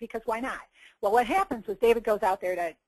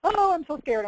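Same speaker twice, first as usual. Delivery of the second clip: high, loud mock panic; mock freaking out; 8 semitones higher, 5 dB louder than usual. Everybody reacting to giant Goliath, hammed-up fright. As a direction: wail it like an exaggerated scaredy-cat. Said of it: "Everybody's freaking out".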